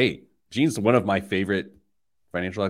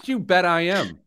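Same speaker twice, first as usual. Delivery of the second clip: much higher and louder, gloating; gleeful mock boast; 12 semitones higher, 8 dB louder than usual. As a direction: crow it like you've won. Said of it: "And I was like".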